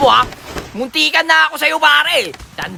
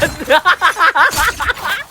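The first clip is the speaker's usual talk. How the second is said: gloating laugh; 3 semitones higher than usual. Real, not acted. Gloats after kill.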